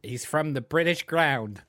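lightly put-on British accent on "British ground"; hint of a hammed-up British accent; mock British accent. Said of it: "It's just the way he says".

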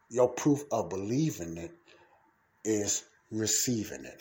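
pause, then a deliberate "receiving"; stress on RECEIVING. Real, not acted. Preacher giving the proof of believing, stressing "receiving". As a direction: set "receiving" apart after a pause. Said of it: "I put emphasis on that".

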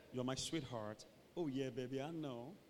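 low, soft cooing; whispering lovers. Acted. Two lovers close together, murmuring to each other. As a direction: murmur it intimately. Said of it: "two people are just whispering".

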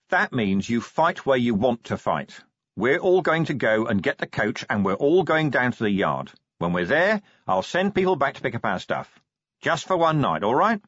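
firm orders, rising to a question at the end; firm man in charge. Acted. Vimes telling Sybil they go to the yard, firm. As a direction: lay out the plan firmly.

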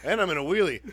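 high, loud mock panic; overwhelmed realization. Rider retells realizing he's mid-wheelie, loud drawn-out amazement. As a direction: build to a long, drawn-out exclamation. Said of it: "it all just hit me".

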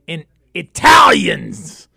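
slow, loud shout of "in Italians" the way dad says it; dad's proud shout. Retold or imitated. Host imitating his dad on where shoes are made, slow loud shout. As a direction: belt out "in Italians" like a proud father. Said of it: "as my dad would say".

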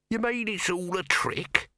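high, astonished question. A narrator's reading. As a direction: sound truly amazed. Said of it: "he said, astonished".

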